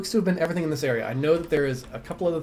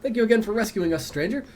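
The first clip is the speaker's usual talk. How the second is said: grandly grateful director; 5 semitones higher than usual. Acted. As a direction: thank the rescuer with theatrical pomp. Voices the dwarf thanking.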